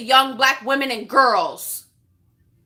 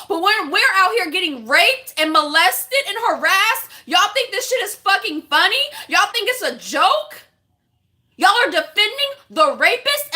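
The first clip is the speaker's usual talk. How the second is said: heated, raised-pitch challenge; real indignation; 3 semitones higher than usual. Real, not acted. Black woman confronting men who defend an abuser, indignant. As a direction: demand answers, pitch climbing on the questions.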